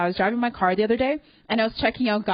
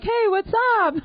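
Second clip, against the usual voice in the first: flirty hey; 13 semitones higher than usual. Pretend. Comic calling to a homeless guy, mock flirty. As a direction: toss it out like a pickup line. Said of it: "Then I can be like".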